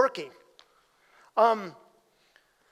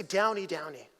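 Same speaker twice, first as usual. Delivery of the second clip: tender name call; 5 semitones lower, 7 dB quieter than usual. Retold or imitated. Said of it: "I could say".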